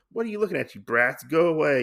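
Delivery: mock irritation. Gin chasing off starving bear kids, mock irritation.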